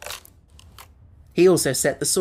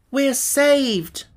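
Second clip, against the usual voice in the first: bright, much higher cry of relief; delighted shout; 10 semitones higher, 3 dB louder than usual. A narrator's reading. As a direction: shout it with joy, saved at last. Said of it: "shouted the boy delightedly".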